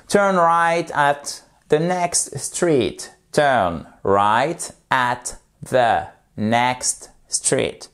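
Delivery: "Turn right at the next" drawn out, each word stretched; very slow demo. Shown as a demonstration. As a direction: crawl through "Turn right at the next" as a model. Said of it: "Vous faites lentement".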